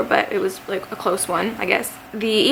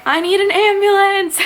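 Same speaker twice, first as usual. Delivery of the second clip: high, loud mock-desperate cry; retold scream; 11 semitones higher, 5 dB louder than usual. Calling nine one one in agony, mock scream. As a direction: imitate screaming for help, voice pitched way up. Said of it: "I'm, like, screaming".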